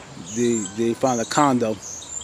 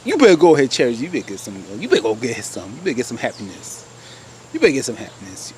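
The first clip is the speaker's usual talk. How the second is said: encouraging. Pretend. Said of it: "I'm gonna be nice to her and say".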